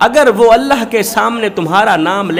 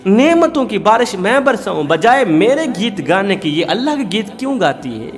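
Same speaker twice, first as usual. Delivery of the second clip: higher-pitched, resentful complaining; a hypocrite husband airing his grievance, pitched up and heated; indignant husband; 4 semitones higher than usual. Acted. Hypocrite husband complains about wife. (नाराज़ शौहर की ऊँची, शिकायती आवाज़)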